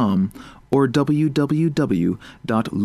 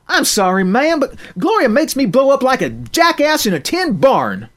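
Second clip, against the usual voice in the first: a hint of a sorry farm girl, higher; mild country-girl apology; lightly voiced country girl; 12 semitones higher, 4 dB louder than usual. Narrator voicing Crystal.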